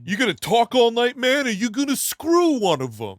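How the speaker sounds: high loud street taunt; tough pimp voice. Acted. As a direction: sneer it out like a pimp. Acting out the pimp's taunt.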